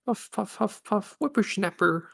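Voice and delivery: put-on high, winded old lady panting; out of breath. Old lady still winded from the chase, panting high. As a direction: gasp out the words between breaths. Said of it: "Sounds like she hasn't had".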